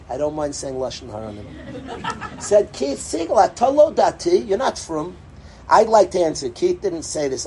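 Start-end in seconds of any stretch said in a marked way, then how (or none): 2.7-5.2 mock captor accusation. Hamas captor mocking Keith Siegel, hammed-up accusation. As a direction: ham up the captor scolding him. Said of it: "Hamas guy said the curse word".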